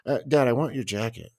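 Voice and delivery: put-on child voice. Child suddenly calm explaining.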